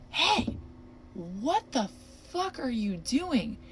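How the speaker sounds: startled yell, slowed on the last words; startled shout. Retold or imitated. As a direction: yell out to scare him off. Same yell retold again.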